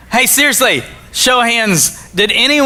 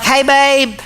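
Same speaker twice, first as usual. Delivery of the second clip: imitating his wife; 6 semitones higher than usual. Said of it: "'cause that's how she talks".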